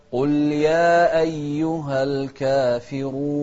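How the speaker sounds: الكافرون with a full, heavy ر. Shown as a demonstration. Teacher showing the heavy ra. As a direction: thicken the ر of الكافرون. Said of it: "فإذن هي مفخمة".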